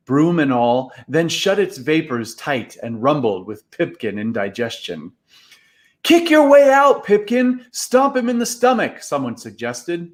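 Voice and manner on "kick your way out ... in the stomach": much higher and louder, yelling up at the cloud; urgent shout. Acted. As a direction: call out to your swallowed friend. Boys shouting advice to Pipkin.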